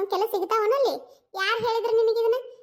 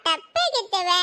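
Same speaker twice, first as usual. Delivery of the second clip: mocking echo; much slower than usual. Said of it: "ನಾಟಕ ಮಾಡಕತ್ತಾನ ಇವ".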